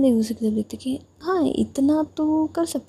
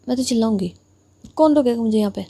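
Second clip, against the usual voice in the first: louder, defiant challenge; defiant shout; 3 dB louder, faster than usual. Acted. Younger sister defying her elder sister in hospital, loud. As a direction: dare anyone to stop her.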